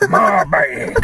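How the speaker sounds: whispered, clutching; whispered my bag. Retold or imitated. Crackhead hugging the bag, whispered. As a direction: hiss it like it's treasure. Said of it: "he's all holding it like this".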